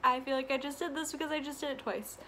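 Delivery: winded, short of breath. Real, not acted. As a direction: speak while catching breath. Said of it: "I'm really out of breath".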